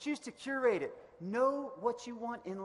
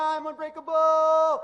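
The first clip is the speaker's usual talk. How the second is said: slow, high, very loud "I am unbreakable"; shouted affirmation; 8 semitones higher, 14 dB louder, slower than usual. Shown as a demonstration. Speaker leads the crowd in yelling the affirmation, loud shout. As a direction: lead the crowd at full volume. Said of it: "I want you to yell one".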